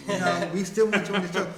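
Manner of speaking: laughing. Real, not acted. Joking invitation, laughing while speaking.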